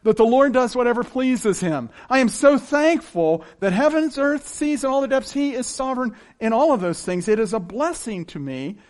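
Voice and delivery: gratefully exultant praise; joyful praise. Retold or imitated. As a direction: sing out thanks like a hymn. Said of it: "the lyrics to a song where he says".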